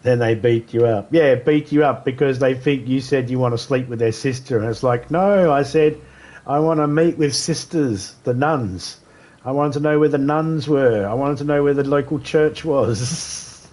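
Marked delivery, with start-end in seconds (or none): 5.1-13.7 pleading explanation. Acted. Acted explaining misunderstanding, pleading.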